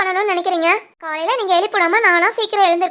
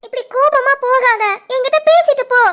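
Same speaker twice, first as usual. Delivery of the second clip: calling after him; 3 semitones higher than usual. Acted. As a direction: raise your voice so he stops and turns back. Wife calls after leaving husband.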